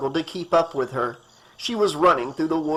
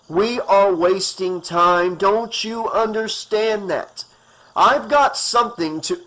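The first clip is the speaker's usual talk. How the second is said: impatient; 4 semitones higher, 4 dB louder than usual. Acted. Doctor urging hysterical woman.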